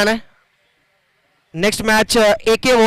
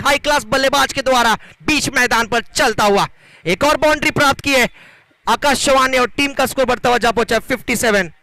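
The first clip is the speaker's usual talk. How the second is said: lively cricket play-by-play; live commentary. Acted. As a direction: call the match as it happens.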